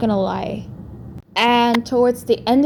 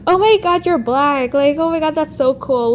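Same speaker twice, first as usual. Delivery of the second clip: higher-pitched mock amazement; mock gushing; 4 semitones higher than usual. Imagining a tactless reaction to someone different, mock gushing. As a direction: imitate an over-impressed onlooker.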